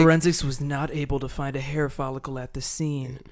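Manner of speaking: lightly voiced creepy narrator; spooky ad read. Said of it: "ad read in the same fucking spooky voice".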